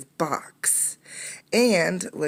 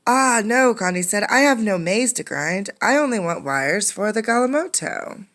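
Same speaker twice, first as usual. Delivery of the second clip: high, louder worried plea; anxious protest; 6 semitones higher, 5 dB louder than usual. Acted. Condi pleading with the angry crowd, high and anxious. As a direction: plead your innocence quickly.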